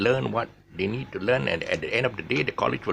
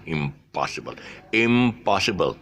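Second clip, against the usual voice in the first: "impossible" with the stress on POSS; "impossible" said deliberately as im-POSS-ible; 3 semitones lower than usual. Shown as a demonstration. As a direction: keep the beat on POSS in "impossible". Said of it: "the stress is still".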